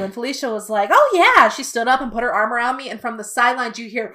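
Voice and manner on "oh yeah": a bright, much higher yes, louder; chirpy high agreement. Retold or imitated. Felicia Day agreeing to a fan's photo, high and chirpy. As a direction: play the star cheerfully agreeing.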